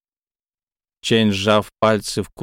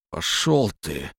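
low, slow grumble; grumbling; 4 semitones lower, 5 dB quieter, slower than usual. Acted. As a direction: mutter it and walk off. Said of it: "буркнул Чэнь".

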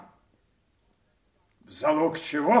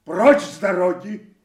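angry warning; 4 semitones higher, 5 dB louder than usual. Acted. King warns Kent off, enraged.

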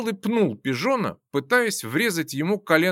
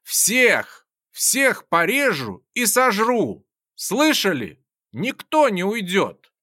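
mad yell; 3 semitones higher, slower than usual. Acted. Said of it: "Я заорал".

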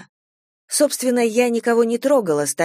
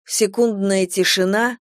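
ordinary delivery

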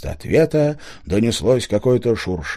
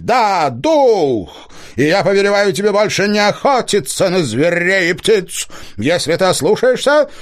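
ringing booming voice; 10 semitones higher, 4 dB louder than usual. A narrator's reading. Spirit voice from the hollow commanding the hunter, ringing and rolling. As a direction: boom it out like a hidden spirit.

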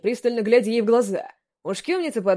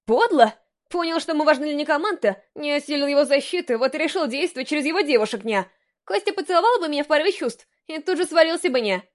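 higher indignant catgirl voice; 5 semitones higher than usual. Acted. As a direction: play an outraged cat girl.

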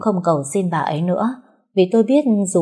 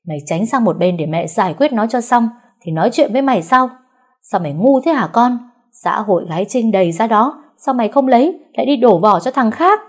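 loud, much higher, exasperated tirade; angry scolding; 5 semitones higher, 5 dB louder than usual. Acted. Mother scolding her son, loud and furious. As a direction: scold him as a fool.

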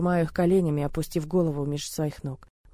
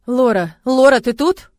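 loud worried call, voice rising; 6 semitones higher, 12 dB louder, slower than usual. Acted. Man calling Lora through the locked door, loud and worried.

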